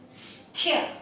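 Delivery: "sthya" with a puff of air on the th; aspirated th. Shown as a demonstration. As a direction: say "sthya" as one cluster, s into a breathy th. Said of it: "Again, this is aspirated".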